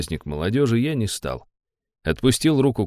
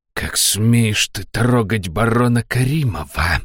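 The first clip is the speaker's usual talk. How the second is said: whisper yelling; 3 semitones higher, slower than usual. A narrator's reading. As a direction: hiss it through the teeth, slowly. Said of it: "прошипел костюм".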